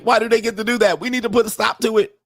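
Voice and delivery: mocking an outraged woman. Mocking a woman who wants men stopped, high and indignant. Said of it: "This woman's like".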